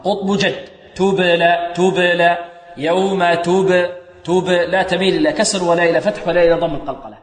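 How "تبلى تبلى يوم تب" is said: تبلى with the ب bounced in a short echo; a neutral little rebound on the ب in تبلى; qalqala. Shown as a demonstration. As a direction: bounce the ب of تبلى without adding a vowel.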